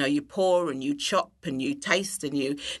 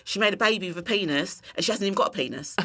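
put-on light Cockney accent; Lulu; 2 semitones higher, faster than usual. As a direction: retell it in a friend's Cockney, lightly. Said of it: "in a very Cockney accent".

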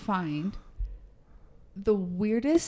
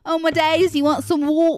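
high, louder mock amazement; mocking imitation; 7 semitones higher, 4 dB louder than usual. Brit teasing the American, mocking high voice. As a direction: tease in an exaggerated high voice. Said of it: "just their dry humor".

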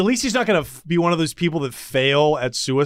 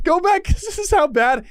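laughing in disgust; disgusted laughter; 13 semitones higher than usual. Real, not acted. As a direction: laugh through it, grossed out. Laughing at gruesome bus video.

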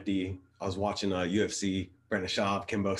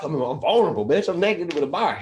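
high, loud mock panic; 8 semitones higher, 7 dB louder than usual. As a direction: yelp it like you're caught naked. Panicked naked in shower.

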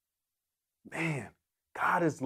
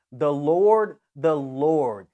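loud proclamation; 6 dB louder, much slower than usual. Acted. Preacher proclaiming God's name to the congregation, loud. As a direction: call out the name loud and ringing.

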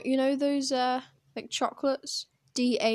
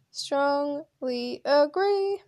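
emphatic; 4 semitones higher, much slower than usual. Real, not acted. Emphatic answer on adoption.

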